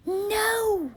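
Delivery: high, loud panicked no; scared witch screaming; frightened cry. A narrator's reading. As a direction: shriek it in terror.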